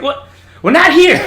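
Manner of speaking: very loud, high mock reprimand; hard chief's yell. Chief to recruit who can't march, mock angry yell. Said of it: "our chief was trying to be hard on him".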